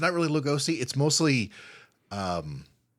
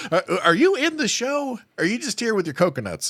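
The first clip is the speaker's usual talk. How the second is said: high, incredulous pretend question; hammed-up puzzled staffer; mock bewildered questioning; 11 semitones higher, 4 dB louder than usual. Imagined baffled staff questioning him.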